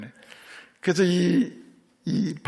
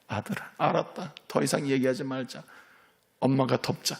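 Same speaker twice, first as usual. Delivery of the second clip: tender parent; 6 dB quieter than usual. Pretend. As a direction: gently cover your son's fault. Parent tenderly forgiving child. (아들을 감싸는 부드러운 엄마 목소리)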